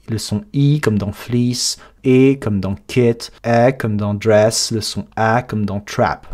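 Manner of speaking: slow, careful front vowels; slow vowel demo. Shown as a demonstration. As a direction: spell out each vowel slowly. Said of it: "qu'on appelle les front vowels".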